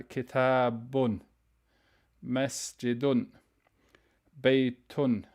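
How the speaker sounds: kitabun with the un ending said clearly; Arabic tanween ending -un; nunation ending. Shown as a demonstration. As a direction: stress the final un in kitabun. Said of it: "You do that by adding the n sound".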